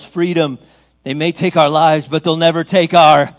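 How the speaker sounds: mock rallying yell, building in volume; imitated yell. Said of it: "where he yells".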